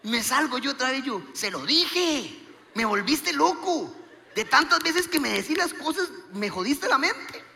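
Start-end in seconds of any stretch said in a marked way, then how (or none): 1.3-7.4 raised, drawn-out comic complaint; mock reproach. Husband blaming wife for driving him crazy, mock reproach. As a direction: scold in a high voice, laughter creeping in.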